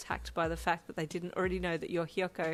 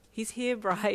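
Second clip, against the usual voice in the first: shy excitement; 4 semitones higher, 6 dB louder, slower than usual. A narrator's reading. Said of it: "with shy excitement".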